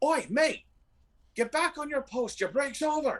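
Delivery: shrill, very high shout from overhead. A voice from above shouts down to the listener, shouting down from above. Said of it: "you hear a voice from above shout down".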